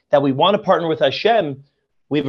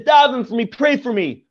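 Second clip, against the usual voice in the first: desperate plea; 6 semitones higher than usual. Retold or imitated. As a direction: beg for help like a man terrified. Begging the mountains to pray.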